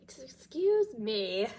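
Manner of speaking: slow whispered "excuse me". Real, not acted. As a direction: whisper it apologetically. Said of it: "I'm a little congested".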